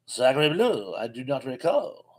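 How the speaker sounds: put-on a deliberately terrible French accent, lightly done; bad French accent. Answering a chat viewer in a mock French accent. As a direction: ham up a cheesy French accent with a mock shrug. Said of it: "that is the worst French accent you will ever hear".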